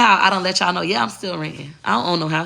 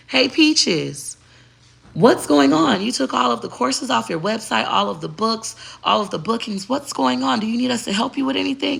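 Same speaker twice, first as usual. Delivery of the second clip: higher, concerned voice for the website staff; worried assistant; 4 semitones higher than usual. Retold or imitated. Website managers text Peaches about the removed courses, lightly voiced concern.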